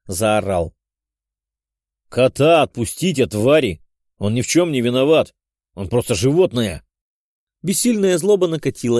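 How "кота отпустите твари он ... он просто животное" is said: furious yell. Acted. Hero shouts at captors.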